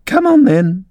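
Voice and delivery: high, commanding royal yell; roared. A narrator's reading. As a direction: bellow the order like a queen. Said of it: "roared the Queen".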